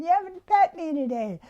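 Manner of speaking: lightly voiced partner begging for attention; Todd asking to be pet. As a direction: act out a playful nagging partner. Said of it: "he's going".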